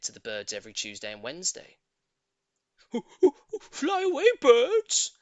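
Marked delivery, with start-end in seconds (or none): 3.7-5.1 high, loud warning shout. A narrator's reading. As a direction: yell to the birds to flee. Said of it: "they used to shout".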